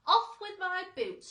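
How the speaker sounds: loud, high urgent shout. A narrator's reading. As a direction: bark the order in panic. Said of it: "shouted the centipede".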